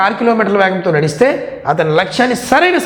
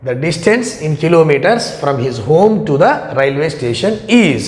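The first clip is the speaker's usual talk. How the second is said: slow, careful reading of the question; reading aloud; much slower than usual. Acted. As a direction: read each word out slowly. Reads the exam question aloud.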